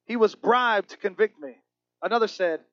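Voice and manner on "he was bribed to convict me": much higher, louder, slow protest; indignant convict pleading his case; begrudging convict. Retold or imitated. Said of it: "One man begrudgingly said".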